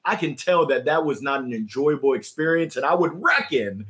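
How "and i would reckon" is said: light Southern twang on "reckon"; Southern accent. Real, not acted. Host owns up to a Southern accent slipping out. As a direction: let the Southern accent slip out. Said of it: "that's my Southern accent coming out".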